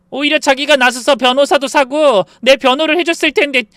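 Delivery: enraged sister-in-law shouting; furious shout. A narrator's reading. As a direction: scream the blame at her. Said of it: "눈에 불을 켜고 소리치더군요".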